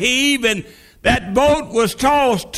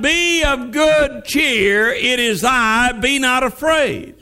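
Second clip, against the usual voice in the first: Jesus calling out. Retold or imitated. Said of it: "he cries out".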